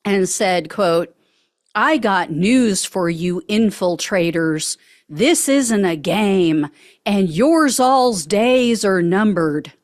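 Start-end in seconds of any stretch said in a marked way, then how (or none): 1.7-9.7 a light mock Southern drawl, slowed; imitating a Southern border guy; lightly put-on Southern accent, measured and slow. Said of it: "I'm saying it with a Southern accent".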